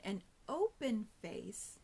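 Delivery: slowed-down demo, stretched out; slow motion. Shown as a demonstration. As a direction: draw each word out slowly. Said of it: "Let me do it in slow motion".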